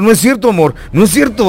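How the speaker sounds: mock a husband denying it to his love; man placating his wife. Guard on the phone to his wife, lightly mocked pleading. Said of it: "Ahorita hablándole a su mujer".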